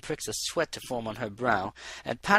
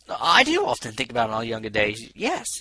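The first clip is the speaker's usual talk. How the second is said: cheerful; 5 dB louder than usual. Acted. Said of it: "he said cheerfully".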